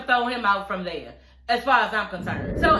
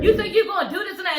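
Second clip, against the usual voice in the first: retold challenge; 7 semitones higher, faster than usual. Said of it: "she was like".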